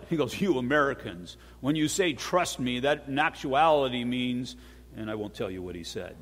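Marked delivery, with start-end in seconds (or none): 0.4-4.5 lightly imitated Iranian accent. Iranian owner complaining about Americans, imitated Iranian accent. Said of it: "That's my Iranian accent".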